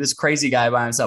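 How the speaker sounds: normal talking voice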